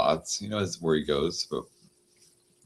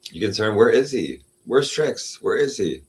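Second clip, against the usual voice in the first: higher, concerned pet talk; asking the cat; 4 semitones higher, 5 dB louder than usual. Real, not acted. Asking cat Lola where the missing Trix is, higher and gentle.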